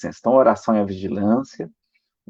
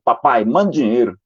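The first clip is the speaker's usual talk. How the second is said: a bossy, demanding note; curt demand. Retold or imitated. Father reading his son's note as a rude command. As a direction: read the note as a blunt order. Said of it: "não foi assim que ele falou".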